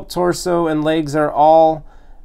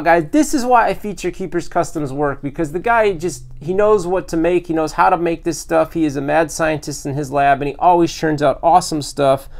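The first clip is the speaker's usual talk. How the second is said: ordinary talk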